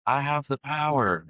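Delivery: slow, lightly heroic proclamation; the son answering his dad with a light heroic cry; He-Man cry. Retold or imitated. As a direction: son answering with a mild mock hero shout. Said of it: "It's from He-Man".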